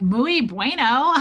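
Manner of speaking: slow, stretched mock-local Spanish; hammed-up Spanish. Gringa passing as Ecuadorian, hammed-up Spanish.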